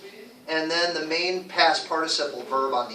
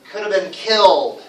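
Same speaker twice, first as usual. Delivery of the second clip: COULD and KILLED louder and longer; stress on could, killed; 4 dB louder than usual. Shown as a demonstration. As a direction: lean on could and killed, glide over "have been". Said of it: "say it a little louder and say it a little longer".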